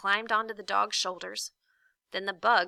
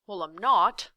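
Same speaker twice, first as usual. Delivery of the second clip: slight shiver; 8 dB louder than usual. A narrator's reading. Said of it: "with a slight shiver".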